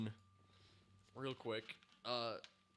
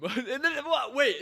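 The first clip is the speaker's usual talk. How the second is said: high, loud and laughing; can barely hold it together; overexcited giggling; giddy laughter; 13 semitones higher, 8 dB louder, slower than usual. Real, not acted. Laughing in excitement.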